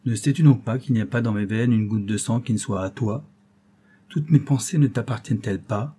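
gentle. Acted. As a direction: coax her gently with love.

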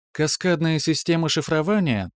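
parry like a calm machine; metallic computer voice. Acted. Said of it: "продолжала машина".

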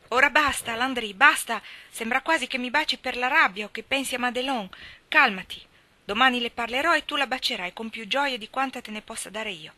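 put-on girl crying out to stop, loud and urgent; alarmed plea. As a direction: push him back with your voice. She pushes him away, alarmed.

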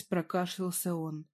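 plain reading voice

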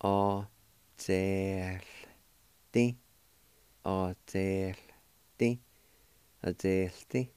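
Adelti said slowly first, then at normal pace; pronunciation demo. Shown as a demonstration. Teacher repeating Adelti so students can copy. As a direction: model Adelti carefully for learners. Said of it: "like this".

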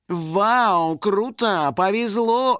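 high, clamouring fan exclamations; excited crowd. A narrator's reading. Fans reacting to the winner, excited. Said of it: "зашумела толпа фанатов".

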